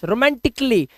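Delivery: रोमांटिकली as "ro-man-tik-lee", no "a" after k; correct pronunciation. Shown as a demonstration. Teacher models रोमांटिकली without the "ka", correctly pronounced. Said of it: "आ का sound नहीं लाना है".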